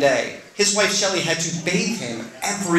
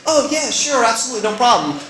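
much higher, louder, cheerful yes-man; upbeat Paul; 9 semitones higher, 5 dB louder than usual. Retold or imitated. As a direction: chirp it like the ever-positive friend. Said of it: "being the upbeat guy that he is".

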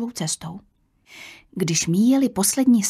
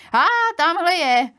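high, louder exclamation; sudden cry; 9 semitones higher, 5 dB louder than usual. A narrator's reading. Young woman spots the missing girl, sudden high cry. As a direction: call out on suddenly spotting her. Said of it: "vykřikla najednou mladá žena".

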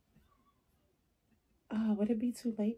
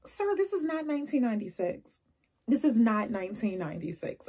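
indignant rebuke; 4 semitones higher, 4 dB louder than usual. Acted. Acted rebuke to the man.

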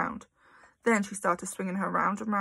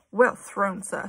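louder cheer; distant shout; 5 dB louder, slower than usual. Acted. Someone cheering the throw from across the playground, shout. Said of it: "someone shouted".

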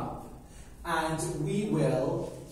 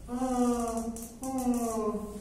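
mock sleepy moans, pitched up; fake sleeping noises; 7 semitones higher than usual. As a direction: pretend to be asleep with a hammed-up "oh, oh". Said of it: "pretended to sleep".

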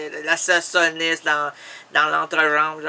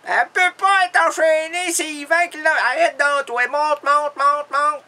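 high, raised, urgent voice; frantic ordering; 7 semitones higher, 4 dB louder than usual. Acted. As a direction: hurry him up with repeated high commands. Acted quarrel, ordering Harry into elevator. (ordres aigus et pressants)

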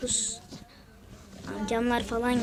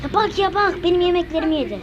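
higher, much louder indignant yelling; outraged shout; 7 semitones higher, 9 dB louder than usual. Real, not acted. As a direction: yell it like someone just stole your lunch. Outraged when his food is eaten.

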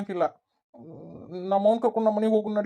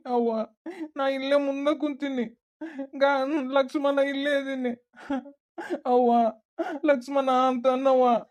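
choked-up plea to a mother; tearful pleading; 2 semitones higher than usual. Acted. Son begs his unresponsive mother to speak to him, crying. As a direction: beg her through tears to answer. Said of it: "ಅಳಕ್ ಹೋಗ್ಬೇಡಪ್ಪ".

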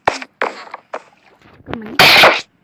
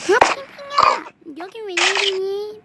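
high excited greeting; 5 semitones higher, slower than usual. Pretend.

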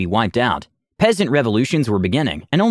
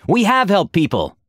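much higher, raised defensive cry; mock shout; 8 semitones higher than usual. Aura defending the party to the crowd, raised shout. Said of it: "Aura shouted".

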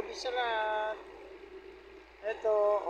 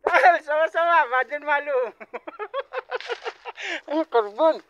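excited joking; 7 semitones higher, 12 dB louder, faster than usual. Real, not acted. Joking loudly with coworkers.

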